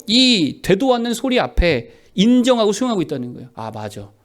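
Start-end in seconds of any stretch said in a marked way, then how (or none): 3.5-4.1 mock resigned agreement, low then building; resigned self-defeat. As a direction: give in to the accusations, gradually rising from low. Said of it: "바보들은 어떻게 살아간다고요".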